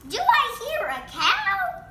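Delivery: high, loud, laughing question; laughing shout. Acted. Bean loudly laughs about cow.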